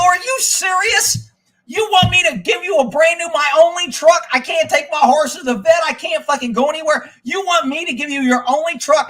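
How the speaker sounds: high, loud, indignant yelling; angry rant. Retold or imitated. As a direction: let the dealer have it, loud and high. Yells at service center.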